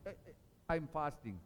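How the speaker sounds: lightly showy fasting announcement; a hint of showing off the fast. Preacher mimics a man telling his brother he fasts. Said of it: "But not while you're busy fasting".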